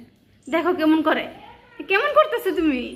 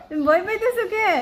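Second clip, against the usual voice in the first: higher, gentle coaxing question; high cooing pet voice; pet talk; 6 semitones higher than usual. Real, not acted. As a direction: soothe the frightened cat.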